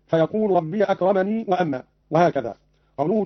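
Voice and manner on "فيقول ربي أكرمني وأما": "أكرمني" ending in long -nee, joined to "وأما"; yaa kept in joining. Shown as a demonstration. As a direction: sound "ربي" as rabbiya and keep the yaa of "أكرمني". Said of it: "وإذا وصل يقول". ("أكرمني" بإثبات الياء وصلا)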